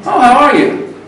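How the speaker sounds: "Oh, how are you?" with "Oh" lifted high then falling; musical English tune. Shown as a demonstration. Teacher showing the lively English tune of "Oh, how are you?". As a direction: sing "Oh" up high and let it drop. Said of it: "It's not flat".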